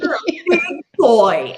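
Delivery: high, loud mock congratulations; sarcastic praise. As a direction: praise him like a little kid, joking and sarcastic. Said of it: "I was being sarcastic".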